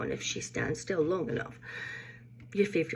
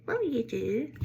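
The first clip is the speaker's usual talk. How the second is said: lightly voiced questioning relative, higher with swooping tune; mock interrogation; 5 semitones higher than usual. Relatives grilling her about the solo trip, mock interrogation. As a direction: put on a higher, prying family voice. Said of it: "I got the twenty questions ordeal".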